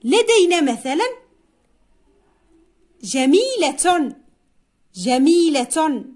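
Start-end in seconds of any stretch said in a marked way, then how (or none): 3.0-4.1 جميلة drawn out with a full -tun ending; final ta sounded. Shown as a demonstration. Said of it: "نحذف الصوت الأخير". 4.9-6.0 long ii in جميلة, then a clear -tun; final ta sounded. Shown as a demonstration. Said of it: "نحذف الصوت الأخير".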